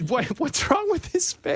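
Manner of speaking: squeaky, high, laughing. Real, not acted. Laughing at an AI image.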